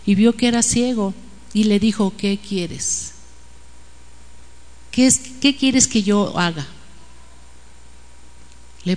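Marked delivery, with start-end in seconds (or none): 2.2-6.7 soft, understated tender question; gentle asking. Retold or imitated. Jesus turns back to the blind man, gentle asking. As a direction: ask gently, voice lowered.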